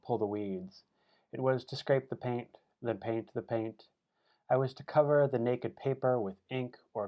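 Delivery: emphatic list-poem recital, each line launched firmly then falling; poetry reading. Acted. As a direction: punch the start of each line, pause between items. Reads list poem Resume.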